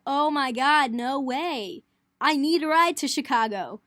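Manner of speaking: bursting with relief, loud and high; retold overjoyed plea to the driver; excited. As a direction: gush like you just got saved. Excited begging the shuttle driver.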